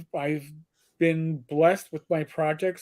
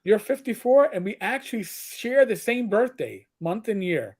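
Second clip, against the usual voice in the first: surprised realization; 4 semitones higher than usual. Retold or imitated. Retelling surprise at shared birthday.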